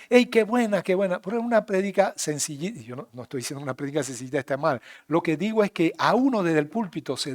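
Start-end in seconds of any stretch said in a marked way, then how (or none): 0.1-1.2 mock excitement. Congregation cheering, imitated.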